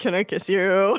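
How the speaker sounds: gritted-teeth delivery. Retelling what the character asked: imitating words through gritted teeth. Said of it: "said between grit teeth and, like, closed eyes".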